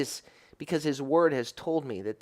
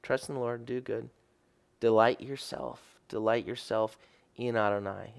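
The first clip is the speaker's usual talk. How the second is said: softer, hushed reading of the verse; soft recited scripture; quiet scripture quote; 2 semitones lower, 5 dB quieter than usual. Acted. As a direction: let the verse fall gently. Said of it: "it says".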